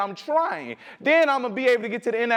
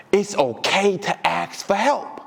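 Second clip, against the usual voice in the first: calm gentle advice; 2 semitones lower, slower than usual. Retold or imitated.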